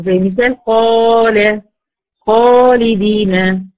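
قال خالدين read very slowly, with a full, heavy emphatic alif after the ق and the خ; heavy alif demo. Shown as a demonstration. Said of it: "إذا كان ما قبلها مفخم تفخم".

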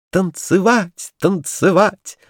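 high, slow eager cry; excited shout. A narrator's reading. Kurilka shouting to dance with the toys, high. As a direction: call it out with glee. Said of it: "закричал Курилка".

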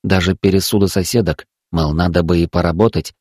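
ordinary delivery, nothing marked

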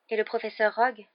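high, timid little voice; small voice. A narrator's reading. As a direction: ask it hesitantly. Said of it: "d'une petite voix". (petite voix)

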